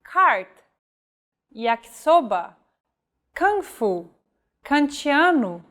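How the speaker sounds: Cart, yakisoba, kung fu, kantiano each with a crisp English K. Shown as a demonstration. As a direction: hit every K hard. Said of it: "the letter K is read just like in English".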